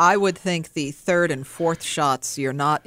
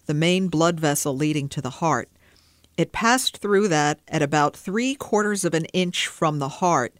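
dry clinical monotone, lightly voiced; nineteen oh three coroner's voice. Shown as a demonstration. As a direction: read it like an old coroner's report. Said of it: "my nineteenth century car-, nineteen oh three coroner's voice".

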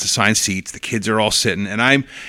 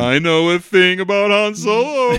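put-on bratty kid blurting; 9 semitones higher than usual. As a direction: shout it out like a cocky kid.

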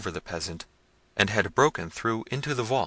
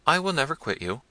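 keen, higher pledge; eagerly; 7 semitones higher than usual. A narrator's reading. Stranger vowing to protect the princess, eager. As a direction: rush to promise her. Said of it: "said the stranger eagerly".

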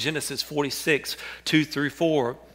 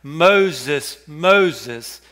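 loud, ringing call of a name; God crying out; 7 dB louder than usual. Acted. God calling Moses from the fiery bush, loud cry. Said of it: "he cries out to Moses".

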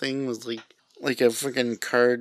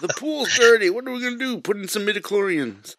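ad voice; 10 semitones higher, 5 dB louder than usual. Acted. Mock commercial voice.

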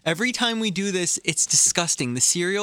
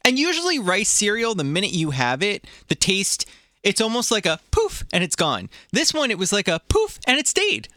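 put-on Australian accent; 4 semitones higher than usual. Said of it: "Do you like my Australian accent?".

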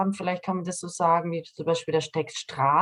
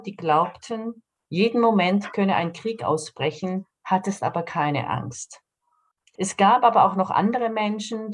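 reading aloud. Real, not acted. Author reads a short story quotation to the interviewer, measured reading aloud. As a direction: read the quotation out deliberately, with pauses between sentences. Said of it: "das lese ich jetzt vor".

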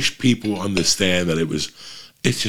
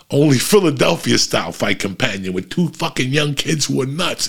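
ordinary delivery

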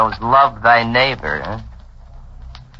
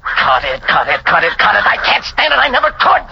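exasperated; 4 semitones higher than usual. Acted. Man shouts at her crying.

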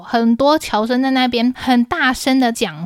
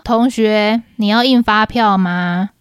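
slow, impatient and a bit louder; growing impatience; 3 dB louder, slower than usual. Retold or imitated. Cashier asking the customer again, getting impatient. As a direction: let the impatience creep in on each word. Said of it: "我语气越来越不耐烦了哦".

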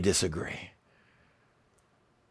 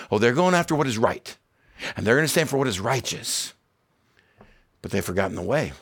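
normal talking voice

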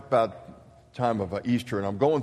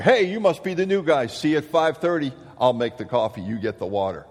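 cheery colonel; 3 semitones higher, 4 dB louder than usual. Retold or imitated. Colonel greets the new guy.

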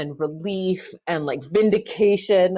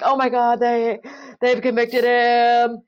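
higher, louder, slow dread at the verdict; panicked thought; 5 semitones higher, 4 dB louder, slower than usual. Retold or imitated. Lawyer's inner voice reading the jury, panicked. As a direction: voice the sinking fear as it dawns.

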